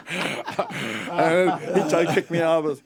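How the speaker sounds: high and loud laughter; laughing hard. Real, not acted. Telling the interviewer about his cheek, laughing. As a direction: laugh at your own nerve.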